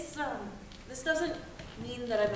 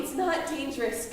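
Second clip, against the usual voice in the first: annoyed snap; 2 semitones higher, 5 dB louder than usual. Acted. Teen snaps back.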